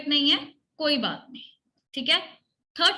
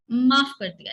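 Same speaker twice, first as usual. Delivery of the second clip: forgiving demo; 5 dB louder than usual. Shown as a demonstration. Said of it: "ऐसे करो".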